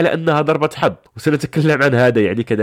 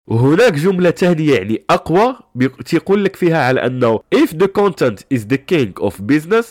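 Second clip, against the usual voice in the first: stuffy nose. Real, not acted. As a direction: voice thick with a cold. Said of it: "أعتذر عن الصوت في هذه الحلقات الأخيرة لأنه عندي نزلة برد".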